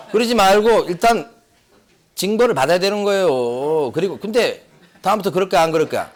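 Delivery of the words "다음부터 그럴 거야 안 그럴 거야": laughing mock of a coaxing mother, voice shifted; half-laughing parody of a doting mother; mocking the wife. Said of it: "꼭 옆에서 초를 쳐요".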